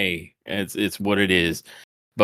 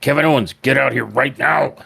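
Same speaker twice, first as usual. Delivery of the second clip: a lightly louder, raised bark calling someone out; half-joking boss demand for Owens to show himself; a hint of a wrestling boss yelling down the ramp; Vince McMahon; 4 semitones higher, 3 dB louder than usual. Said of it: "I don't know why he turned into Vince McMahon".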